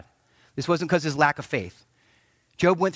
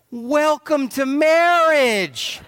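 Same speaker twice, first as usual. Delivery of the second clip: high, slow words through a laugh; amused slow punchline with a chuckle; laughing quip; 8 semitones higher, 4 dB louder, much slower than usual. Retold or imitated. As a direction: laugh it out as a knowing joke. Answers a couple's complaint.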